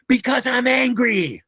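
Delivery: high, slow mock yell of the shooter; the shooter's answer, mimicked loud and high; retold yell. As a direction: throw it back high and slow. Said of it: "And he yelled back".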